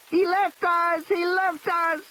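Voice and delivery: put-on high, unbroken child's wailing; steady wail. Lex wails in the car in a steady monotone. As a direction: keep wailing the same words over and over. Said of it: "in a steady, monotonous wail".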